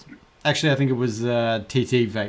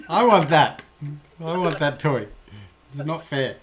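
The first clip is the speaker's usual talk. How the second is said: mock whining child; 3 semitones higher than usual.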